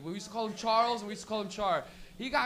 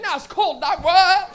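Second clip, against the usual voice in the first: weed talking; 8 semitones higher, 10 dB louder, slower than usual. Acted. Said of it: "the weed is like".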